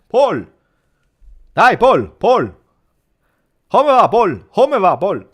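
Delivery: mock Allegri with a thick Livorno accent; Allegri on the phone. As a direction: boom out a friendly Italian phone greeting. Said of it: "So in Italian".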